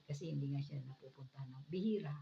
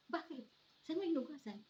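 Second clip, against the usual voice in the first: high, alarmed asking, louder at the end; shocked question; 12 semitones higher, 6 dB louder than usual. Retold or imitated. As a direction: ask in alarm, voice jumping up. Asking mother-in-law in shock. (gulat na gulat na tanong, mataas ang boses)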